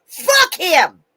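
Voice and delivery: angry scream. Real, not acted. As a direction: spit the insult out screaming. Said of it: "I didn't mean to scream at you".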